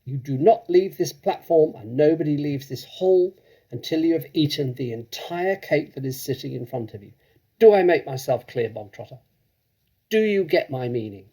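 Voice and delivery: loud, high bullying headmistress; furious headmistress. Acted. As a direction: bellow at the boy like a tyrant. Trunchbull berates the boy.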